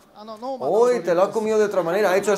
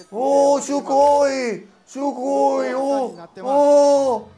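high, loud, drawn-out sugoi; mock Japanese gushing; 7 semitones higher, 5 dB louder, much slower than usual. Streamer mocks Japanese excitement over the menu, shouting high. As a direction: gush like an overexcited anime fan.

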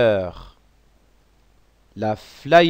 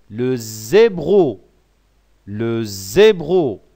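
slow model pronunciation; slower than usual. Shown as a demonstration.

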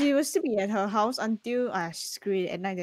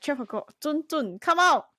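loud, higher call to come out; calling someone out; 4 semitones higher, 4 dB louder, slower than usual. Pretend. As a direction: summon them with a drawn-out name, then a shout. Calling for a character to appear.

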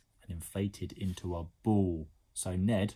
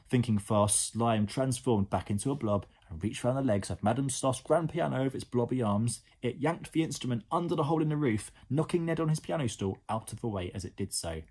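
lively storybook reading; animated bedtime-story narrator; story narration; 4 semitones higher, 5 dB louder than usual. A narrator's reading. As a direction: read it to young children with drama. Reads a story to children.

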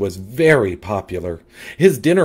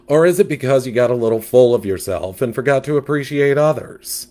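louder, sassy gossip; sassy catfish; 4 semitones higher, 4 dB louder than usual. Acted. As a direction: diva fish with attitude.

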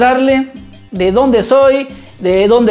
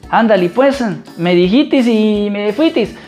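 a hint of rural Michoacán accent; demonstrating Michoacán country speech, understated. Shown as a demonstration. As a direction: lightly imitate a Michoacán ranch accent. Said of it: "el tono de voz ya no lo tengo, como".

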